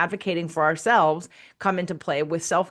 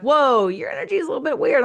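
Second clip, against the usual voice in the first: high, louder, startled remark; surprised whoa; 6 semitones higher, 4 dB louder than usual. Retold or imitated. Co-host noticing strange energy, startled. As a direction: jump up in pitch on whoa. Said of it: "And you're like".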